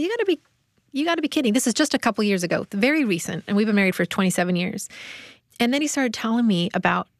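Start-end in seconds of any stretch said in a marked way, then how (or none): 0.0-1.5 much higher, astonished protest; incredulous disbelief. Retold or imitated. Wife telling her husband he can't mean it, incredulous. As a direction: say it as if it can't be true.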